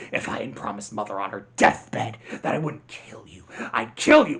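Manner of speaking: villain threatening his brother; whispered threat then a burst. Retold or imitated.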